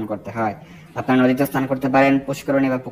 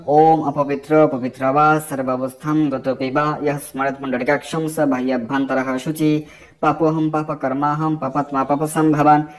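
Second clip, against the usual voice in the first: slow, even Sanskrit mantra chanting; measured devotional recital; mantra recitation. Acted. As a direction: intone the mantra as a prayer.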